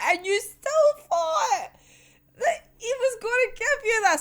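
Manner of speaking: a whiny incredulous plea to the character. Real, not acted. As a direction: draw it out in whiny disbelief. Disbelief at character.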